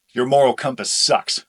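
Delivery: angry. Acted. Heated argument.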